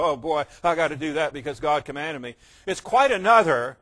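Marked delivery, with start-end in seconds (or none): 0.0-2.3 low, resigned grumble; mildly put-on weary compliance; mock reluctant obedience. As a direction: give in like it's a chore. Mimics reluctant obedience to command.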